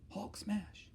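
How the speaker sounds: hammed-up Hulk smash. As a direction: play the angry Hulk for a moment. Hulk example for rage.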